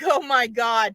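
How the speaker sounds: crying out in relief; teary gasp of relief; choked-up relief. Retold or imitated. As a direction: say it through tears of relief. Owner overwhelmed by relief.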